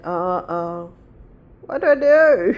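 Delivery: mock alarm, voice jumping up; panicked mum. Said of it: "And I was like".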